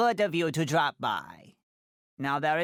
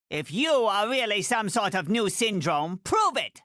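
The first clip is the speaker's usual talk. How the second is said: challenge; 2 semitones higher than usual. Acted. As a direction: dare the stranger to prove himself. Challenging an impostor.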